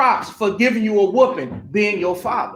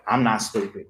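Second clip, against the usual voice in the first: offended reply; 11 semitones lower, 6 dB quieter than usual. Retold or imitated. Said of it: "nobody ever said you were stupid".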